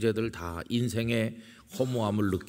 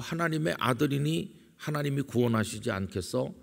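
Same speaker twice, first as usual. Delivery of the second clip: higher-pitched imitated taunt; mocking jeer; 6 semitones higher than usual. Mockers at the cross taunting Jesus, lightly acted scorn. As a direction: mildly mimic a sarcastic jeer. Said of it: "이런 식으로 조롱했는데".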